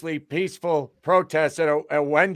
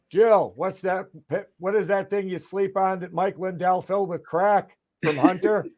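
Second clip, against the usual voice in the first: amped-up pitch for a pillow seller; mock pitchman. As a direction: hype it like a late-night ad guy. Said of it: "I know what he wants".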